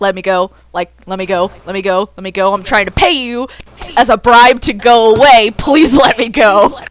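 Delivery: a touch of low, pleading. Acted. Mildly pleading with the clinging child. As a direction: mutter to be let go. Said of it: "trying to jiggle their leg out".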